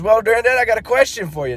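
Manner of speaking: put-on high child voice; little kid voice. Little Johnny asking grandpa, high childlike. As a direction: pipe up like a small boy.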